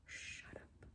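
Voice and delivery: awed whispered disbelief; barely voiced, stunned; soft stunned shut up; breathless whisper. Real, not acted. Gasping disbelief at blush.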